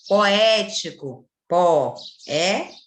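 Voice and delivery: poético said slowly, po-é-ti-co, each syllable apart; syllables split. Shown as a demonstration. Teacher showing pupils the hiatus, slow and loud. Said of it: "Se separa".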